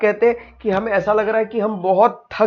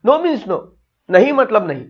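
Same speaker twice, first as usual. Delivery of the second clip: firm refusal; 3 semitones higher than usual. Acted. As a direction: refuse point-blank, pitch raised. Body parts repeat their refusal. (ऊँची आवाज़ में साफ़ इनकार)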